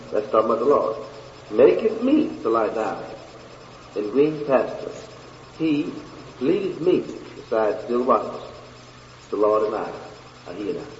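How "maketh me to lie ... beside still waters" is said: broken into short, deliberate phrases; slower scripture reading. Shown as a demonstration. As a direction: pause after each phrase of the verse.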